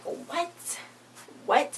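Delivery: high-pitched mock astonishment; incredulous squeak. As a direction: squeak it as a shocked aside. Mock disbelief at the show.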